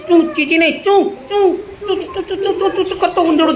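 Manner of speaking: quick run of little squeaks; mouse squeak. Shown as a demonstration. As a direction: show how a mouse goes chu-chu. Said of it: "તમે ઉંદરડાનો અવાજ કાઢો". (ઉંદરડાનું ચૂં ચૂં)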